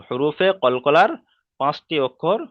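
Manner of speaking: হুরুফে কলকলার said slowly and loudly, word by word; slow emphatic. Shown as a demonstration.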